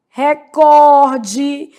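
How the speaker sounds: recorde as re-COR-de; stress on COR. Shown as a demonstration. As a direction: lean hard on COR in recorde. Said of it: "a sílaba tônica".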